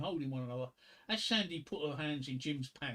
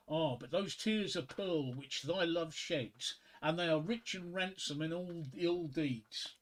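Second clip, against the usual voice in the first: slow, measured recital of a sonnet; slow poem recital; slower than usual. Acted. Comedian reading a Shakespeare sonnet to the crowd, slow and measured. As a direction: let each line land slowly.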